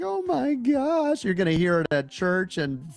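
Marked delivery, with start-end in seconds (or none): 0.0-1.2 put-on very high, screaming-crying panicked wail of dismay. Retelling how others react to their portfolios: imitating someone screaming and crying. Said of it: "they are screaming, crying, like".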